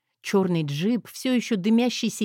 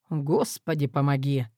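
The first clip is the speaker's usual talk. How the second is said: groaning; 6 semitones lower than usual. Acted. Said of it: "простонал".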